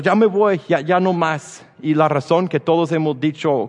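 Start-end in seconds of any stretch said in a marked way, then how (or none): 0.0-1.6 mock storming off. Storming off in anger.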